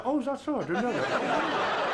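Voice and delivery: high, drawn-out falsely innocent reply, slowed; mock innocence. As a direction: play dumb, sweetly.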